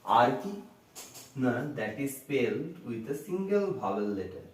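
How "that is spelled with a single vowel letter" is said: slow, deliberate dictation; teacher dictating a definition word by word; dictation pace. Shown as a demonstration. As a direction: spell it out slowly for students to write. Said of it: "teacher dictating definition slowly".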